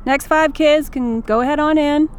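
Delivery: volunteer dad calling over. Acted. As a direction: call to a colleague. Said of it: "calls out".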